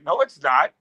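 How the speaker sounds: mild mock denial; retold contradiction. Friend disputes the bar dude's claim, mildly contradicting. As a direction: contradict the other man, fairly evenly.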